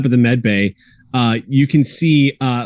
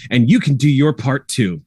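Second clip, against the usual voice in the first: PSA to camera. Acted. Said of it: "looks directly at camera and says".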